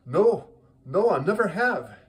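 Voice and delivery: eager anticipation. Acted. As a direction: blurt it out, hammed-up and hopeful. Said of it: "big smile of anticipation".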